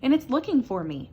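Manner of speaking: high, loud scared little mouse cry; little mouse fearing a ghost; frightened little mouse. A narrator's reading. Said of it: "he cried".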